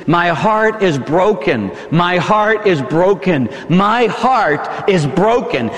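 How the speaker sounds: My heart is broken, slowed and drawn out each time; slow, sorrowful repetition. Acted. Preacher echoing Jesus' grief in the garden, slow and sorrowful. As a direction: let it echo, heavy and slow.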